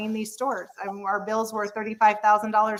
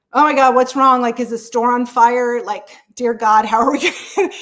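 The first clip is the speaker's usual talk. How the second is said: loud, higher mock alarm as the husband; 4 semitones higher, 7 dB louder than usual. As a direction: imitate the husband's frantic worry. Husband's alarmed reaction on phone.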